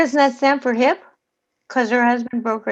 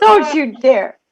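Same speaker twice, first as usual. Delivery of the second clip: laughing warning; 6 dB louder than usual. Real, not acted.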